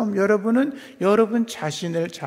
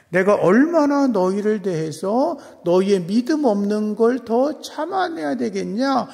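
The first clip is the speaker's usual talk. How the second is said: rising exasperated rebuke, louder as it builds; rebuking; 2 semitones higher, 3 dB louder than usual. Acted. Jesus scolding his disciples, exasperated and rising. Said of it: "이렇게 오히려 주님이 책망하죠".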